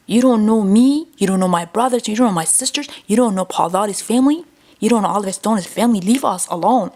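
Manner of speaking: mildly heated, insistent rebuke; emphatic telling-off. Retold or imitated. Telling celebrity worshippers to leave the family alone, emphatic rebuke. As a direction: press each point, a touch exasperated.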